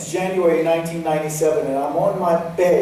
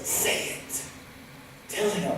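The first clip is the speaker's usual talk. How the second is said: breathy whisper of an inner voice; 2 semitones higher, 10 dB quieter than usual. Retold or imitated. An inner voice urging him to tell his father. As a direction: urge him in a hushed voice.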